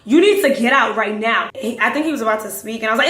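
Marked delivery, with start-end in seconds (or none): 0.1-1.5 loud, put-on New York accent; heavy New York accent. She pretends it is her car, loud New York accent. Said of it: "put on my American accent, heavy, like, New York accent".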